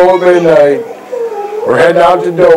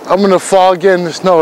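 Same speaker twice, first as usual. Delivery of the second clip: fast, rushed delivery; quick retake; faster than usual. Acted. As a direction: rattle it off quickly. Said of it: "I'm gonna cut it".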